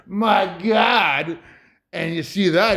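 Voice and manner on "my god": lightly voiced kid; mild imitated awe. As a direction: say it as the kid does. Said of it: "When you hear this kid say".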